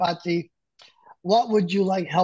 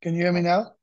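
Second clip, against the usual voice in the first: choppy, faint call audio; breaking up on a bad connection; laggy video call. Real, not acted. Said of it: "my application crashed".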